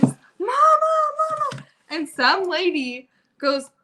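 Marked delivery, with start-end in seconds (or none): 0.0-1.6 high, louder mama call; child yelling. Retold or imitated. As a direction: shout it like a kid at the top of his lungs. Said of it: "Maverick yelling at the top of his lungs".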